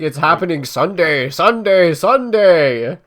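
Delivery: booming radio ad announcer; monster truck ad. Retold or imitated. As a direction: hype it like a monster truck commercial. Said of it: "he's like".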